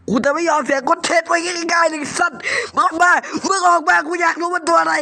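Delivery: defiant shout; angry challenge. Real, not acted. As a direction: yell come out at the thing. Yelling challenge at hidden monster.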